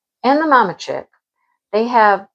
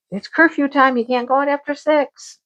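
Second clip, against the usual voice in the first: mock strict parent; 6 semitones higher than usual. Laying down cat's curfew.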